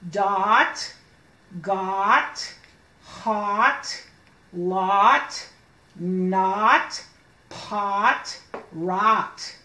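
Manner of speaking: each word said slowly and clearly, one at a time; sounding out words. Shown as a demonstration. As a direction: model each word for the child to copy. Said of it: "Can you do ought with me?".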